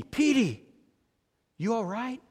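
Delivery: a gentle, quiet check-in, dropping soft at the end; mildly voiced calm coach reaching out to an upset player; quiet, calm call. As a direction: call out softly to a hurt player. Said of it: "he quietly and calmly calls to Petey".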